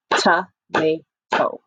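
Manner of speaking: "Tomato" very slow in three separate beats; syllable by syllable. Shown as a demonstration. Teacher asks children to count syllables, "Tomato" in three beats. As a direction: clap out "Tomato" as to, ma, to with gaps. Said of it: "How many syllables did you hear?".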